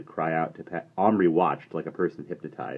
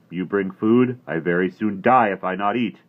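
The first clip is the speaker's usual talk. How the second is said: Little Bear voice; 3 semitones higher, 8 dB louder than usual. A narrator's reading. Little Bear broken English.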